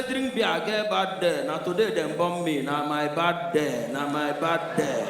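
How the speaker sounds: slow, drawn-out mock lament; mock moaning. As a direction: drag out the bad day like a complaint. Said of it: "I say".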